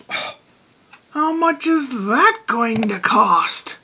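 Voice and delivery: hushed, slow, anxious whisper; worried whisper. Retold or imitated. Husband asking his wife about the bill in a worried whisper. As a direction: breathe it out in worry.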